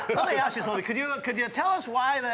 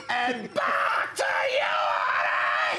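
drawn-out announcer toss; sportscaster toss; 10 semitones higher, much slower than usual. Pretend. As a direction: broadcaster handing it back, slow.

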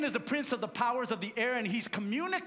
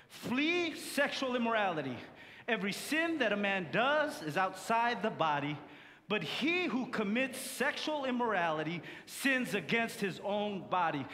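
scripture reading. Acted. Congregation reads scripture aloud.

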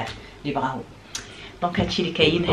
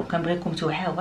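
the same plea dropped much softer; soft repeat; 6 dB quieter than usual. Real, not acted. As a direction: let it fall, a quiet echo of the plea. Same words repeated softly. (بهدوء وبصوت منخفض)

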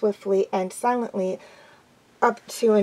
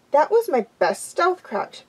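high-pitched, offended protest; indignant; 6 semitones higher than usual. Acted. Graypaw defending his stealth crouch, indignant. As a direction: protest with wounded pride.

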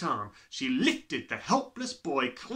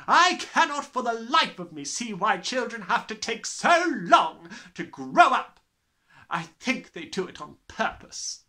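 contemptuous headmistress; 8 semitones higher, 7 dB louder than usual. Acted. Headmistress sneering at small people. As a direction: sneer at all children. Trunchbull voice.

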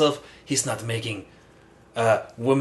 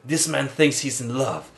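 put-on French accent. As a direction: deliver it grandly in French accent. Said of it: "What happened to your French accent".

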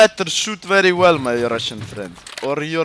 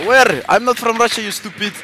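high-pitched, offended denial; indignant; 8 semitones higher, 4 dB louder than usual. Real, not acted. Denying he is Russian to teasing teammate, indignant. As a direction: snap back indignantly, voice raised.

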